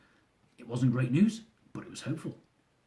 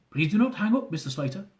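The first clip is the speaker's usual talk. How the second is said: put-on thick Indian accent; 5 semitones higher than usual. Officer urging the husband to stay on, Indian accent. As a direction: urge him not to hang up, Indian accent. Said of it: "with a thick Indian accent".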